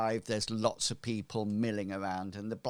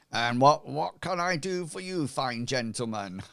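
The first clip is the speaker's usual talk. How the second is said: higher, louder opening than usual; a craftsman hailing his customers; blacksmith; 4 semitones higher, 4 dB louder than usual. Acted. Blacksmith greets three unexpected visitors in his foundry, surprised. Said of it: "he goes".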